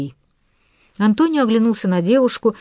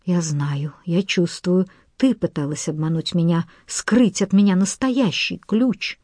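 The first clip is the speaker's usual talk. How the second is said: hoarse wheeze. Acted. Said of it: "и прохрипел".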